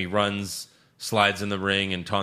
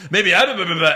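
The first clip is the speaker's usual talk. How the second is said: mock ranting promo; 8 semitones higher, 8 dB louder, faster than usual. Retelling Daniel's promo.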